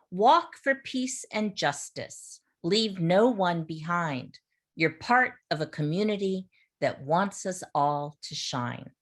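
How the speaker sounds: measured, rhythmic recitation; poem reading. Acted. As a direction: read the poem out to the class with lift. Teacher reads a poem aloud.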